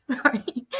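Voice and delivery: real choked-up emotion, ending in an apologetic little laugh; emotional. Real, not acted. Survivor recalling her prayer for her mum, emotional. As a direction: voice catching with feeling. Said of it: "I get a bit emotional talking about this bit".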